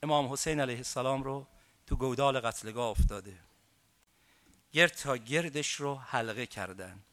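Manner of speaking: hushed grieving recital; hushed mourning narration. Acted. Rowzeh lament of the battlefield.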